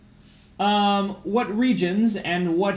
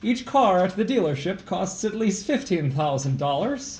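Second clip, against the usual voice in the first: put-on failed Irish accent. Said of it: "This is not Irish".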